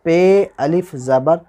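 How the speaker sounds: पे अलिफ ज़बर drawn out slowly, rising on पे; slow spelling. Shown as a demonstration. Teacher repeating पे अलिफ ज़बर slowly for students. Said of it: "आवाज़ किधर जा रही है".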